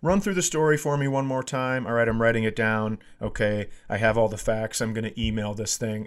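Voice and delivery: calm, level insurance friend; steady him down with a calm voice. Retold or imitated. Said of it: "and so calmly".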